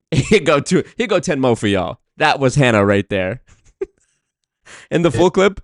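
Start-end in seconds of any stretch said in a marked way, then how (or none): 0.1-2.0 laughing mimicry. Streamer laughing, mimicking clip line. 3.5-5.6 laughing. Real, not acted. Cracking up over the clip.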